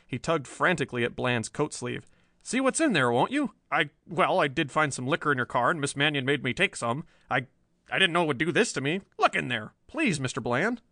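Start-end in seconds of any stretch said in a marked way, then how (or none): 2.4-10.8 frantic pleading. Acted. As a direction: beg the chief to look.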